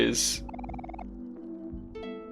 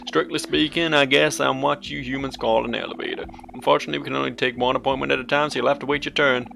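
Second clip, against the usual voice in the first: cheerful elevator voice; 3 semitones higher than usual. Acted. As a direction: play a chirpy talking elevator. Reads Humphrey elevator dialogue.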